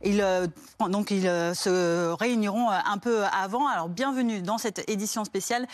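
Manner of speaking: urgent news anchor read; breaking news. Acted. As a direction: open the special bulletin briskly. Anchor opens special edition.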